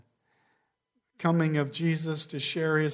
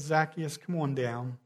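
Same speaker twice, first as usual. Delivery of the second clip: gentle call; 4 dB quieter than usual. Shown as a demonstration. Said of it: "He just calls his name and says".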